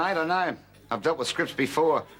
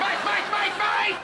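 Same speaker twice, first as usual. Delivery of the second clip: squealed mate. Acted.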